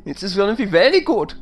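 put-on playful German accent, pitch high. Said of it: "first episode he's ever done in a German accent".

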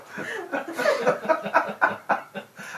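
high unvoiced burst of laughter; high laughing fit. Real, not acted. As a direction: collapse into laughter.

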